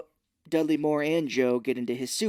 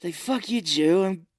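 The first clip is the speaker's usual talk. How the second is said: put-on drunk Arthur; 2 semitones higher than usual. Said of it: "his character in Arthur where he's drunk".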